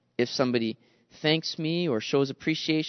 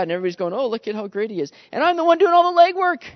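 resentful grumbling; 3 semitones higher, 5 dB louder than usual. Retold or imitated. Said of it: "get caught up in thinking".

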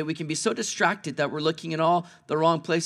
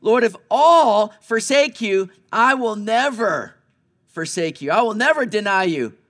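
boastful Peter; 4 semitones higher, 7 dB louder than usual. Retold or imitated. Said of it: "Peter's the guy that said".

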